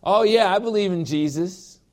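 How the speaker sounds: high, casual agreeing voice; lightly voiced careless girlfriend; breezy yes. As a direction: toss off an easy yes. Partner's easy answer acted out.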